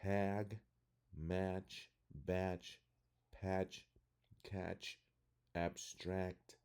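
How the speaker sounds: short flat A, as in "tag" and "match"; word list read slowly with short A in "batch", "patch"; short A sound. Shown as a demonstration. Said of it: "using the short sound of the A".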